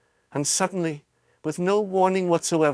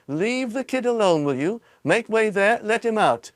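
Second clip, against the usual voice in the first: mild shout; 7 semitones higher than usual. A narrator's reading.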